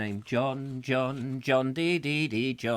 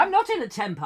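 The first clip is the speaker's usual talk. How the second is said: mock temper denial; 12 semitones higher, faster than usual. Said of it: "I've told you".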